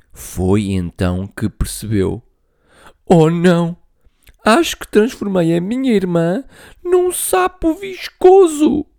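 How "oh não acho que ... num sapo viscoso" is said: loud gasp then high whispered dread; horrified whisper. Acted. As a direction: panic under your breath. Horrified realization. (sussurro assustado)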